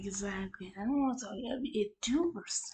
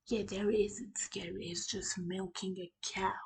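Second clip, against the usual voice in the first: hushed, breathy whisper; 4 semitones lower, 5 dB quieter than usual. Pretend. Co-host whispering a joke to the room. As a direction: whisper it like a secret. Repeating a line, then whispering it.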